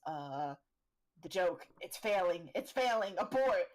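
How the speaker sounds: put-on panicked kid. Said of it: "one of the kids goes".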